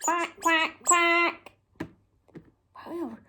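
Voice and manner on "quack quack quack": softer run of three quacks; duck quack. Acted. Presenter echoing the duck's sound for children, quacking. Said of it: "And it goes".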